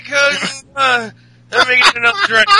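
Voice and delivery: put-on high, loud drunken bellow; hammed-up boozy wrestler rant; drunk Sheamus. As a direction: holler and lose the thread, mock-drunk. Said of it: "just do a drunk one".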